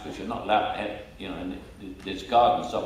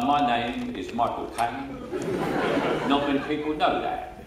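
Michael Caine impression; 3 semitones higher than usual. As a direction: imitate the impressionists overdoing your Cockney cadence. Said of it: "And they say".

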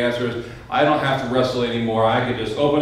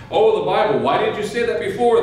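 high, louder exclamation of recognition; acted "oh, now I get it" outburst; sudden realisation; 9 semitones higher, 4 dB louder than usual. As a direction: jump up in pitch as the cashier finally gets it. Cashier suddenly understands the customer.

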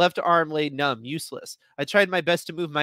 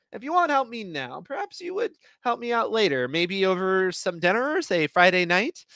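flirty ask; 6 semitones higher than usual. Acted. Flirty invitation, high, slowing.

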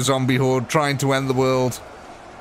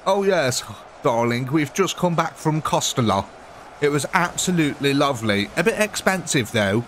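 lightly put-on British darling voice; British impersonation. Brit chatting about coming back from Spain, mock British impersonation. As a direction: play up a British holidaymaker slightly. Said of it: "I'm doing an impersonation of a British person".

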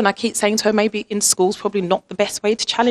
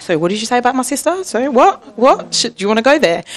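confronting a troll; 6 semitones higher than usual. Pretend. Younger sister confronting her sister's online abusers, mock-defiant. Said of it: "jump onto social media and be like".

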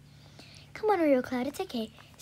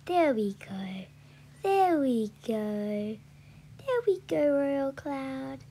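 calming; slower than usual. Real, not acted. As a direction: draw it out to settle her down. Settling the horse.

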